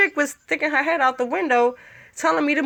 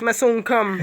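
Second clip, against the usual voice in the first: Rasta voice; 2 semitones lower than usual. Shown as a demonstration. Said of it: "In my, in my Rasta voice".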